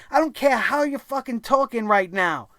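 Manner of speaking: usual speaking voice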